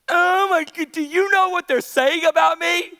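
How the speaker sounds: mock dramatic complaint; lightly hammed-up distress; upset Delilah. Preacher plays Delilah complaining to Samson, mock upset.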